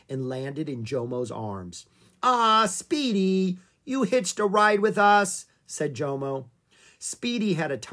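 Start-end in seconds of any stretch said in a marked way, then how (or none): 2.2-5.5 high, loud, drawn-out "Ah" of recognition; delighted surprise. Acted. Jomo finds Speedy stowed away in the Jeep, delighted surprise. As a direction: greet a little pet happily, pitched well up. Jomo greets the stowaway bush baby.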